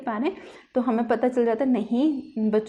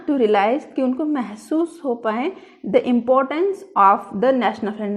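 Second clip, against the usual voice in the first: slow dictation; much slower than usual. Shown as a demonstration. Dictating next specific aim.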